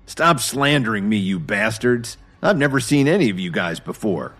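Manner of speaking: a cornered man yelling his innocence; screaming hysterically. Acted. Jason denies it to the accusing engineers, hysterical yelling. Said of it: "Jason screamed hysterically".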